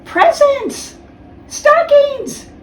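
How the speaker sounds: high, loud delighted cries; excited shouts. Acted. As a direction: shout each one with joy. Children's Christmas morning excitement.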